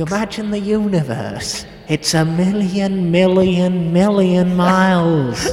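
Brian Cox impression. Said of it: "I love that voice".

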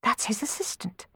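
quiet, startled thought. A narrator's reading. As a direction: realise it under the breath. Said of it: "she thought, startled".

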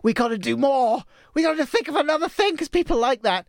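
hyped retelling of the team plan; eager. Retold or imitated. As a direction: pitch the team's big idea. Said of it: "we said".

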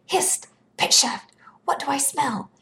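high, alert exclamation; lightly voiced alarm call; crying out. A narrator's reading. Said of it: "and cried".

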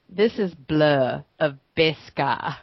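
put-on a weak, slow stab at an Australian accent; bad Australian accent. Host jokingly redoes her sign-on in a bad Australian accent. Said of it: "That's my bad Australian accent".

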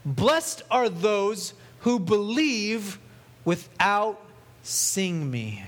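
very slow, deliberate and solemn; solemn Jesus. Retold or imitated. Preacher voicing Jesus to Thomas, slow and solemn. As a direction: lay each word down slowly. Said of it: "Then Jesus told him".

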